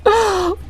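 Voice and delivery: high, wet sob-like laugh; tearful scoff. Acted. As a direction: scoff through the tears. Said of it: "Please stop crying".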